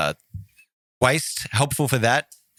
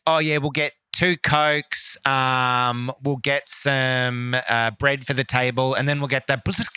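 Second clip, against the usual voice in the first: mock Italian order; 2 semitones higher, slower than usual. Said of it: "They'd be like".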